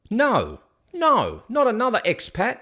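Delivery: high, loud groan of no, no; hammed-up dismay at another expat rant; mock exasperation. Host reacting to the rant video title, mock exasperated.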